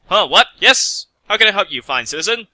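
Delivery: jolted out of a daydream, voice jumping up; surprised. A narrator's reading. Pegasus startled by a stranger, high surprised squeak. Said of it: "The gray Pegasus was surprised".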